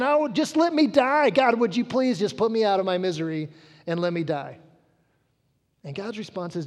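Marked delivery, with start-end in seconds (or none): 0.0-4.6 Jonah's anguished plea. Acted. Jonah begging to die.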